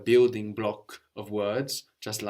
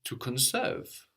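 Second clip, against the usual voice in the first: slow, careful; 2 semitones higher, slower than usual. Shown as a demonstration. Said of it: "we're thinking about the sound too much".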